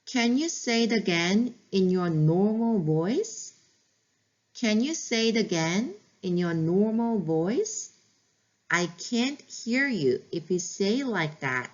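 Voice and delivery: stretched-out words, calm and even; slow teacher model, word by word; very slow model phrase. Shown as a demonstration. Teacher modeling a calm request to a whining child, very slow. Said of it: "어떻게 하면 상대방이 네 말을 들을 수 있는지 알려주시는 게".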